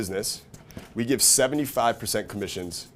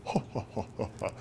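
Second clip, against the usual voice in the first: softer fake chortle; mock sophisticated laughter; 7 dB quieter than usual. Friends reacting to a clever joke, mock refined laughter. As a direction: imitate amusement at very sophisticated humor. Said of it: "very sophisticated humor".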